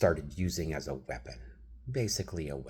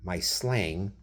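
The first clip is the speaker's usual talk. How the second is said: higher, louder exasperated disbelief; incredulous rant; 6 semitones higher, 7 dB louder than usual. Retold or imitated. Arguing with his wife about translating, loud incredulous voice. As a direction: build to an outraged question. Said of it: "I'm thinking".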